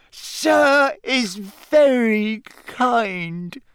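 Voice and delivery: very slow, high, overwhelmed elf squeak; Dobby. A narrator's reading. House-elf overwhelmed by Ron's gift, grateful squeak. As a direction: squeak it out, choked with gratitude. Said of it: "he squeaked".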